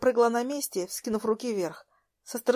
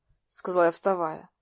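ordinary delivery

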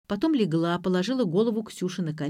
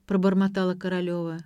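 ordinary delivery

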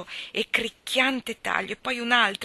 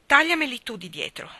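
excited; 5 semitones higher, 5 dB louder than usual. A narrator's reading. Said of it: "eccitata dalla sua stessa audacia".

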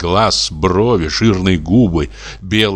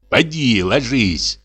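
a lightly voiced husband grumbling; gruff order to go to bed; mild grumble; 5 semitones higher, slower than usual. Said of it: "проворчал дичок".

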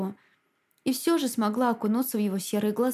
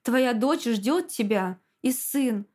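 pleading; 3 semitones higher than usual. Acted. Husband pleading with dying wife.

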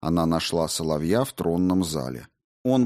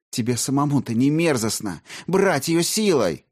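disgusted; 7 semitones higher than usual. A narrator's reading. Olga disgusted accusation.

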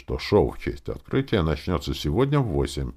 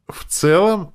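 very high, loud delighted question; elated, leaping pitch; joyful exclamation; 8 dB louder, slower than usual. A narrator's reading. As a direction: seize on it with glee. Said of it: "радостно воскликнул Перч".

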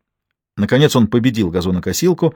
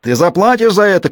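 much higher, raised threat; shouting; 9 semitones higher, 3 dB louder than usual. A narrator's reading. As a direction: yell the threat at her. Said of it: "кричал он".

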